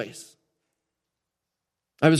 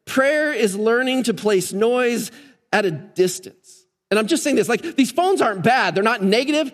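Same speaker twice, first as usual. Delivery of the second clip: higher-pitched, driving sermon delivery; emphatic preaching; 7 semitones higher than usual. Acted. Preacher urging the congregation to get this, emphatic.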